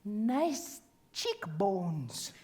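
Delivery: low, drawn-out sweet nothing in the ear; imitated whisper. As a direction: murmur a flirt very slowly, low and soft. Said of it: "he whispers in my ear and he says".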